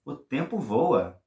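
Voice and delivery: amazed. Shown as a demonstration. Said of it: "you say".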